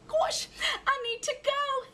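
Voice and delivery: high, startled realisation; gasped. A narrator's reading. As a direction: gasp it as you check the clock. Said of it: "he gasped".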